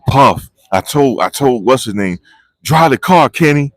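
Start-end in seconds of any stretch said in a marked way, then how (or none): 2.6-3.7 higher, louder mock shout of a fan; calling out playfully across the court; pretend courtroom yell. Vlogger imagining yelling at Diddy's driver in court, playful shout. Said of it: "I just wanted to yell it in court".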